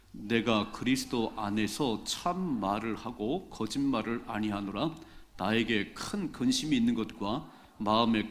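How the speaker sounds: slow, measured congregational Bible reading; deliberate, projected recitation of scripture. Acted. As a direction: lead the congregation in reading aloud, phrase by phrase.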